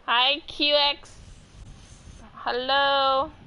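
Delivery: high, loud, drawn-out hello; excited greeting. Real, not acted. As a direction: greet them like a friend arriving. Greeting chat loudly.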